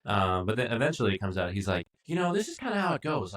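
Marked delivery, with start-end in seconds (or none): 2.0-3.3 mock smug voice. Imitating Matt's smug reveal.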